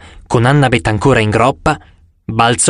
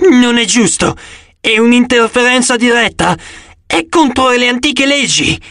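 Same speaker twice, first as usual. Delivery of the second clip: high, strained monster voice; monster's wail; 9 semitones higher than usual. A narrator's reading. Monster protests to the huntresses, wailing. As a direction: protest in a raised, wailing creature voice. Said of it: "Il mostro gemette".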